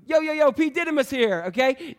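a playful rapper shout-out; mock rapper. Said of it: "a bad rapper's name".

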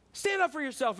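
high, loud furious yell; angry demand. Retold or imitated. Pastor challenging a lying committee head, angry yell. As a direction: demand it in a rage. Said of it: "And I'm angry".

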